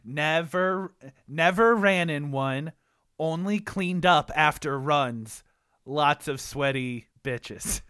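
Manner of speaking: slow, deliberate haiku reading; haiku recital. Acted. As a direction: measure out each line of the poem.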